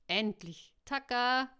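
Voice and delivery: loud, high, drawn-out calls; calling out. A narrator's reading. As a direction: shout to your friends across a distance. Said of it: "rief Emma".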